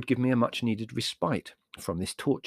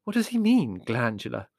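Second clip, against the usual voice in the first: worried mother, pitched up; alarmed; 3 dB louder than usual. Acted. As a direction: demand an explanation in alarm.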